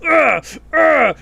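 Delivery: loud high grunting troll; troll grunts. Retold or imitated. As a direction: grunt it like a brute getting hit. Snow troll fight retold.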